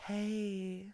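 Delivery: breathy whispered hey. Retold or imitated. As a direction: whisper it softly. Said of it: "I'm a little bit more like".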